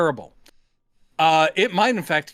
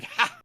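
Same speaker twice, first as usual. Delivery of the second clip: mock laugh; 14 semitones higher, 5 dB quieter than usual. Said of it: "creature is laughing".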